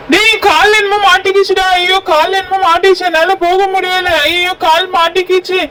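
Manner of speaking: stuck and panicking; distressed. Acted. Boy with his leg caught calls to his friend in distress.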